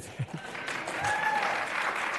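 short airy laugh; a quick unvoiced chuckle; breathy laugh. Real, not acted. Laughs after the mayor's reply.

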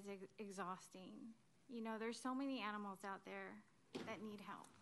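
holding back tears as the words fade; close to tears. Real, not acted. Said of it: "And I'm gonna start crying".

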